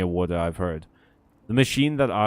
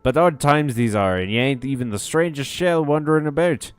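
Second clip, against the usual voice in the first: hearty innkeeper voice; 3 dB louder than usual. Acted. Voicing the innkeeper NPC.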